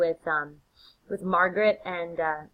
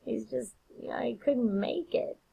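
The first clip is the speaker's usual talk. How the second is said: hammed-up Macbeth; 5 semitones higher, 8 dB louder than usual. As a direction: lament an absent guest as if asking for trouble. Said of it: "just asking for trouble, says".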